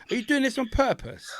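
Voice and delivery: high whispered disbelief; whispering in church about the kid; incredulous whisper. Retold or imitated. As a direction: hiss it under your breath in church. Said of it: "It's like".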